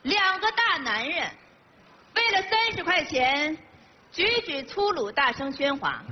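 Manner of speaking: lightly put-on stern authority, measured; stern official. Passenger posing as an official to two arguing men, lightly stern. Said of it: "你跟我绷脸儿干嘛呀".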